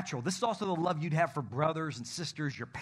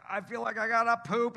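put-on childlike toddler voice; 7 semitones higher, 3 dB louder than usual. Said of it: "they're like".

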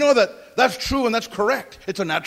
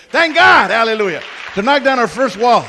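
joyful praise; 7 dB louder than usual. Real, not acted. Pastor celebrating the permit with the congregation, loud jubilant praise. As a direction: shout the praise out to the church.

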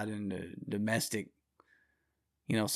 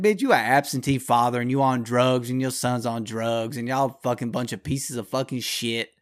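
angry tirade; 5 dB louder than usual. Retold or imitated. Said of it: "It's like".

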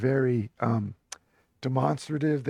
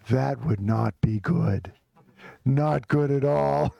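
imitated officious policeman, slowing at the end; deliberate, understated official threat; serious officious voice. Police warning a man they are coming, serious and officious. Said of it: "very serious, officious voice, speaking Italian".

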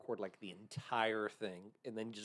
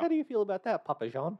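hammed-up bad Italian accent, higher and louder; 8 semitones higher, 4 dB louder than usual. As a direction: play a cheesy fake Italian co-host. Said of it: "of an Italian or something".

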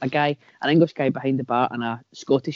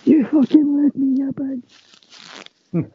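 mock angry kid; 11 semitones higher than usual. Voicing movie kid angrily.

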